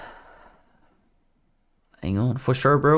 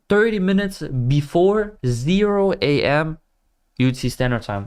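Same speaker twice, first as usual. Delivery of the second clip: robot voice; 2 semitones higher than usual. Shown as a demonstration. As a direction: spell it out like a robot. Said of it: "like a robot".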